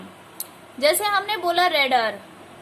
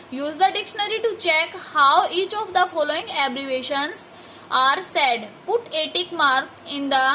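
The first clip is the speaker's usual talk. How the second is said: slow, careful read-aloud for a class; slow textbook reading to a class; 2 semitones lower, much slower than usual. Shown as a demonstration. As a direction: read each word clearly for pupils. Reads the exercise instruction.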